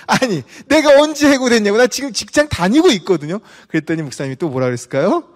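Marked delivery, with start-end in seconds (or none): 0.1-3.4 higher and louder indignant protest; angry denial. Retold or imitated. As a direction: fire it back, offended. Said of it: "또 화가 나가지고".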